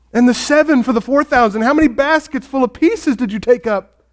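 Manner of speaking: acted righteous frustration, high and insistent; frustrated rebuke. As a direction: read it as a pressing, upset reproach. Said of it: "he's so upset and frustrated and angry".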